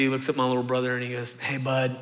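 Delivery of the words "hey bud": softer, apologetic dad letting his son down. Retold or imitated. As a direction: gently break the bad news to your boy.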